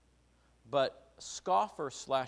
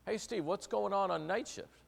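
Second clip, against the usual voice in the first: boss's voice; 8 semitones higher than usual. Retold or imitated. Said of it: "And he says".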